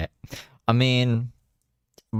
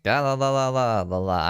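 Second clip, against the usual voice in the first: fake foreign language; 5 semitones higher than usual. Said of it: "pretend to speak Chinese".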